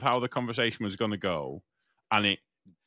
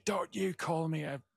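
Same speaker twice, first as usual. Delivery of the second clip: raised, higher-pitched mock yell; retold shouting; 8 semitones higher, 5 dB quieter than usual. Angry man in cafe shouting back at me, retold mock shout. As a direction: imitate an affronted man shouting. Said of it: "Started shouting at me".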